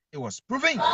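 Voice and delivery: it was proven, called out high; emphatic shout. Real, not acted. Caller on the radio show insisting the journalists were proven right, shouting. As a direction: throw it out like a verdict.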